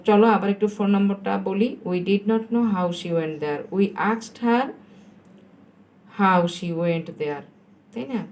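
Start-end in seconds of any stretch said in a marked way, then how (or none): 1.9-7.4 drawn-out teacher's model sentence; slow dictation. Shown as a demonstration. Teacher gives pupils the answer to copy, slow dictation. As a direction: dictate it slowly, word by word.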